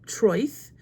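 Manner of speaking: Troith said as in the clip, rhyming with choice; copying the audio. Shown as a demonstration. Repeating a Welsh name after hearing it. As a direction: echo "Troith" after the recording. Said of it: "he said Turch".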